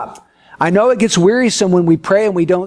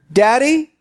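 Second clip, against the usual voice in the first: put-on cheeky little boy; 4 semitones higher than usual. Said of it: "and then you hear".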